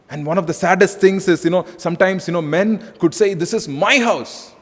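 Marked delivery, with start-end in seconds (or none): 3.3-4.5 a proud, possessive husband, building louder to the end; mock domineering husband. Husband to wife, a building possessive boast. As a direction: lay claim like a bossy husband. Man voiced claiming his house.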